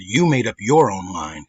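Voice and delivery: slow irritated retort; annoyed. Retold or imitated. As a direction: call her out, word by word. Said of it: "'cause she pissed me off".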